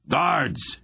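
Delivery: high, loud bawl for the guards; bawled call for guards. A narrator's reading. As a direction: bellow for help down the hall. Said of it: "he bawled".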